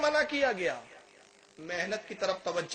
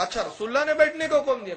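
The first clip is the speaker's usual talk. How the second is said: surprised; 5 semitones higher, 7 dB louder than usual. Retold or imitated. Shopkeeper hears the Prophet's order.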